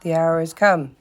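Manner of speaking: grave, weighty pronouncement; solemn. A narrator's reading. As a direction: declare it like a judge. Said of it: "he said with great solemnity".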